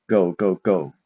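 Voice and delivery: go, go, go each dropping in pitch; go, go, go with downward stress; falling tone. Shown as a demonstration. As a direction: let every go fall. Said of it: "going down".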